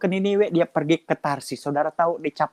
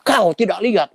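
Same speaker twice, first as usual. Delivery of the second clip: fierce policeman; 2 semitones higher, 6 dB louder than usual. Retold or imitated. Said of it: "Orang Batak galak-galak".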